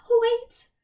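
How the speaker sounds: high, loud call. A narrator's reading. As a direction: call after the coach. Calling to the coachman.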